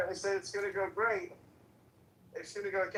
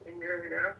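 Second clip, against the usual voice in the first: muffled; faster than usual. Real, not acted. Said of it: "You sound muffled".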